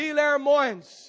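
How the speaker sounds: slow, high, loud cry; fervent slow prayer shout. Acted. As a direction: stretch out each word, shouting. Call and response prayer.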